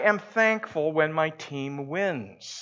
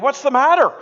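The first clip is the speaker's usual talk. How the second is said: concerned question; 11 semitones higher, 10 dB louder, faster than usual. Retold or imitated. Administrator asks frightened patient.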